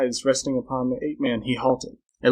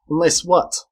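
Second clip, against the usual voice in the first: higher, louder impatient question; demanding; 5 semitones higher, 5 dB louder, slower than usual. A narrator's reading. Man pressing the hesitant girl, demanding. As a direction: press her sharply for the answer. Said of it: "demanded the man".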